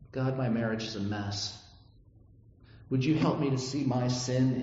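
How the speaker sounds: earnest, gentle pleading, slowing at the end; humble sincere prayer. Shown as a demonstration. Preacher demoing a humble prayer to God, sincere and tender. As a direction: pray like a grateful beggar, not a boss. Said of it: "Do you hear the difference?".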